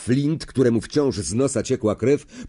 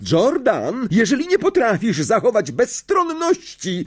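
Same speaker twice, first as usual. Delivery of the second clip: higher stern rebuke; professor's rebuke; 11 semitones higher than usual. Acted. Professor to Lee, stern rebuke. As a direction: scold the commentator.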